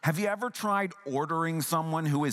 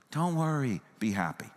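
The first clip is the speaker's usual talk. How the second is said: understated brush-off, dropping at the end; unconcerned, dismissive. Shown as a demonstration. Preacher showing the wrong tone, mildly dismissive. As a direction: toss it off with mild unconcern. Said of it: "unconcerned, dismissive tone of".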